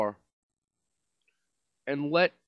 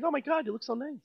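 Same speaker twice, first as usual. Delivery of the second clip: fake compliment; 8 semitones higher, 4 dB quieter, faster than usual. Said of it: "You had to always be nice".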